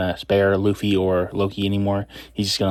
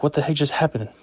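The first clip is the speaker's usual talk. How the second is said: bewildered; 5 semitones higher, faster than usual. Retold or imitated. Riders stunned after being cut.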